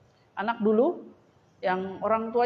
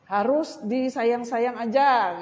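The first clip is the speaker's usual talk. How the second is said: mocking psychologist; 3 semitones higher, slower than usual.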